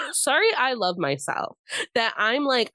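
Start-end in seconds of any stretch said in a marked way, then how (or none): 0.1-1.5 cheeky pride. Real, not acted.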